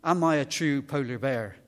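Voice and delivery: loud, insistent calling for daddy; young polar bear. Acted. Polar bear cub running over to ask his daddy, insistent calling. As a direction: play a little bear pestering its parent. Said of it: "he runs over to his daddy and he says".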